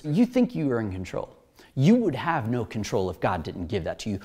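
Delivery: low, unruffled reply; calm acted authority. Jesus telling Pilate who is really in control, calm. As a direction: let it drop low and assured.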